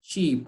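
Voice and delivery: "sheep" with a clean sh, no t; "sheep" as a lone word with pure sh; pronunciation model. Shown as a demonstration. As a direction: model "sheep" for the learner, starting on sh. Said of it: "But here we say sheep".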